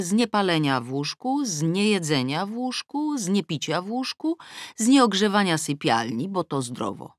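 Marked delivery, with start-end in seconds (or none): none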